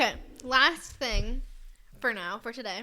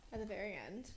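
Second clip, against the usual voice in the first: whispering; 3 semitones lower, 15 dB quieter than usual. Real, not acted. Whispered aside.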